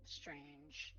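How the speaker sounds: digitally altered voice; voice changer. Real, not acted. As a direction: speak through a voice changer. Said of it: "I'm using a voice changer".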